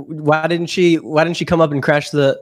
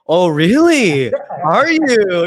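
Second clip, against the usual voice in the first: calling his bluff; slower than usual. Retold or imitated. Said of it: "calls his bluff".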